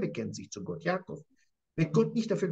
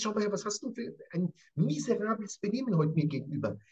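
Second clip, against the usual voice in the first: indignant reproach; 4 semitones higher than usual. Acted. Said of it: "Er sagt ihm jetzt".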